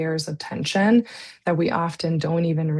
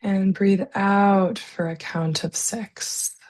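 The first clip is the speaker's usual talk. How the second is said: calm, unhurried breathing guidance with long pauses; guided meditation. Real, not acted. Leads slow breathing exercise.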